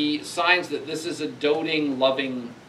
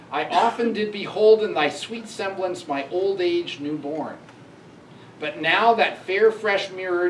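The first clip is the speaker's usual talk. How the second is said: recited verse; 3 semitones higher than usual. Acted. Lecturer reads grieving father's lament to his dead daughter, recited verse.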